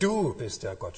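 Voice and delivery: „Du“ leicht betont am Anfang; stress on Du. Shown as a demonstration. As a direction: put the weight on „Du“. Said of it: "Und dabei ist das Du betont". (Betonung auf „Du“)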